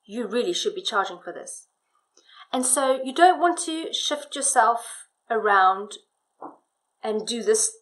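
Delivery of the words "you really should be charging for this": hushed, breathless husband line; whispering. Shown as a demonstration. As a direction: whisper it close.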